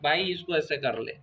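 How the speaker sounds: easygoing encouragement, lightly acted; affectionate, friendly. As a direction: coax gently like a friend. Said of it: "प्यार से सिखाएगा".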